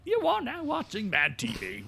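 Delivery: high, bright TV announcer intro. Retold or imitated. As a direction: announce it like a show opening.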